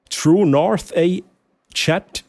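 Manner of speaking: high, slow call-out of True North A; calling out to a chatter, excited. Real, not acted.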